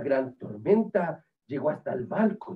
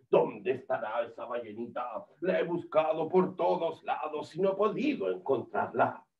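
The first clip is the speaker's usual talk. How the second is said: whale hunter. Acted. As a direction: play the hunter puzzling aloud, pitched down.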